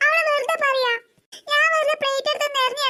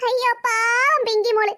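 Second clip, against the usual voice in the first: mocking pity; 3 semitones lower, slower than usual. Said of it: "എന്നെ കളിയാക്കി ചിരിക്കാൻ നിർത്തിക്കോ".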